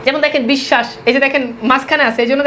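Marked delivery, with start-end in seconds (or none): 0.5-0.9 বিশ্বাস, silent b and double sh; doubled sh in বিশ্বাস. Shown as a demonstration. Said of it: "তালব্য শ দুইবার উচ্চারণ হয়েছে".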